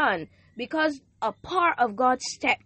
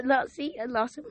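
voice giving out. Real, not acted. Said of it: "I'm losing my voice".

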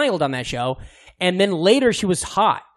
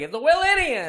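impression of a rapper; 10 semitones higher than usual. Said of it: "He opens it all with, like".

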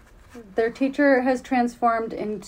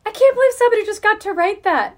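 laughing disbelief; 9 semitones higher, 5 dB louder, faster than usual. Retold or imitated. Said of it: "I was like".

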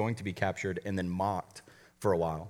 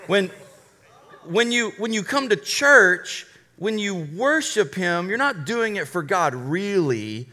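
high, slow, sugary preacher's-wife voice, much higher and louder; mock Victoria Osteen; 5 semitones higher, 4 dB louder than usual. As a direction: parody her sweet sing-song. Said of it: "she said this".

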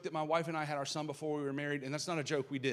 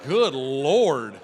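laughing; 16 dB louder than usual. Real, not acted. Startled by the band's entrance.

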